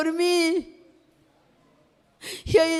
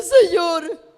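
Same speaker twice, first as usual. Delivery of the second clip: louder, impassioned cry to the Lord; llorando al orar; 6 dB louder than usual. Retold or imitated. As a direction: confess loudly, reliving a tearful prayer. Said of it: "Yo estaba llorando". (clamor dolido al Señor, con voz fuerte)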